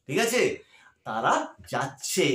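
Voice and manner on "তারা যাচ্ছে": যাচ্ছে said slowly with a long final vowel; drawn-out verb ending. Shown as a demonstration. Teacher showing students the changed verb form, যাচ্ছে stretched out. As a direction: stretch the last syllable of যাচ্ছে. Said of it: "এই যে উচ্চারণটা পাল্টে গেল".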